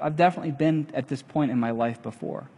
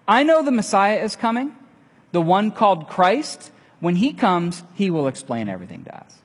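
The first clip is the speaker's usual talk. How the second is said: eager deflection; 5 semitones higher, 4 dB louder than usual. Retold or imitated. Woman deflecting Jesus.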